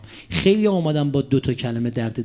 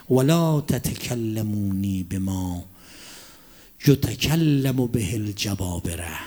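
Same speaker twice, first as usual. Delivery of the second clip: slow low recitation; 5 semitones lower, much slower than usual. Shown as a demonstration. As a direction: recite the Arabic slowly and low, almost to himself. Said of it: "اینجوری حرف نزنید".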